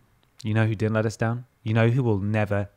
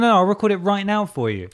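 high eager reply; 8 semitones higher than usual. Retold or imitated. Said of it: "He's like".

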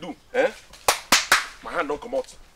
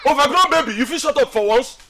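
raised, higher voice; heated scolding; angry put-down; 3 semitones higher than usual. Acted. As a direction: put him in his place forcefully. Silencing younger friend in quarrel.

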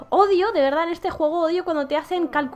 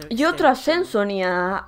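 lower, grander announcer reading; announcer redo; 8 semitones lower than usual. Shown as a demonstration. Streamer redoes the promotion line as a grand announcement. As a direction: say it like a proud announcement. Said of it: "Perdón".

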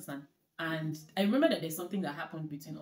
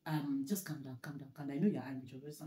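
soothing friend; 5 semitones lower, 7 dB quieter than usual. Retold or imitated. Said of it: "my friend was like".

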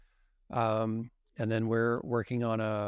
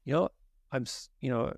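mock fumbling apology; 3 semitones higher than usual. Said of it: "You're like".

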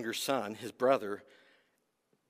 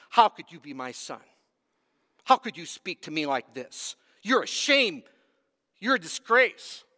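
mock angry father; 3 semitones higher, 6 dB louder than usual. Imagined father disowning son.

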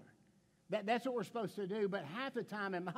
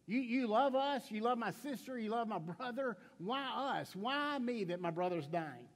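pleading Martha; 3 semitones higher, slower than usual. Retold or imitated. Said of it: "this is what Martha's doing".

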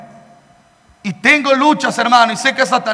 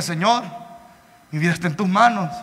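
hushed prayer; 6 semitones lower, 7 dB quieter, faster than usual. Retold or imitated. Frightened rider praying to God.

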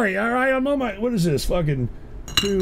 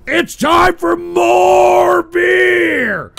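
high, loud, slow hyped call; excited announcement; 10 semitones higher, 5 dB louder, much slower than usual. Real, not acted. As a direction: hype it up like an announcer. Announcing the beer break.

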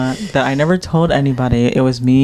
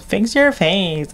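slow, higher, drawn-out mock scold; mocking coworker; 6 semitones higher, much slower than usual. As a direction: drag out each word like a nagging coworker. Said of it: "And she goes".

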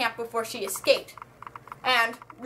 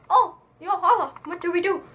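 mock panic; 5 semitones higher than usual. Father who just shot Chubbs, mock panic. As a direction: act flustered, pitched up, lightly hammed.

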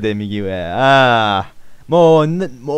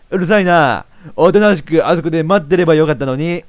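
angry; 4 semitones higher, 5 dB louder than usual. Acted. Mary turns angry.

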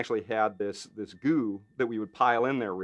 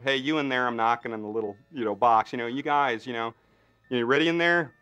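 calling into the box; 2 semitones higher, 4 dB louder than usual. Retold or imitated. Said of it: "I go".

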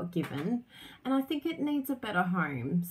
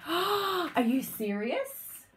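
higher, slowed, thrilled disbelief; mock delighted surprise; 6 semitones higher, much slower than usual. Team members opening the gift, hammed-up amazed gasp. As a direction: gasp it out like opening the best present.

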